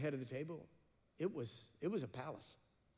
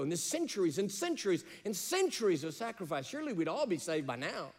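louder and higher, driving home the point; building preaching climax; 5 semitones higher, 7 dB louder than usual. Real, not acted. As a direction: preach it rising to a peak. Preaching climax, rising intensity.

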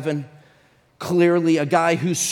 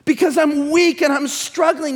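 higher, louder pleading cry; impassioned cry; 11 semitones higher, 9 dB louder than usual. Acted. Preacher voicing a weak believer's cry, higher and louder. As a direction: cry out for freedom. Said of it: "Our English is really saying".

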